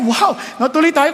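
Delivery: ordinary delivery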